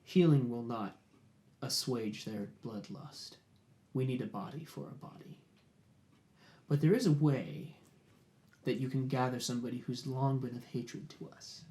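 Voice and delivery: a hint of a quiet threatening warlord; menacing chieftain. Kor speaks low, menacing negotiation.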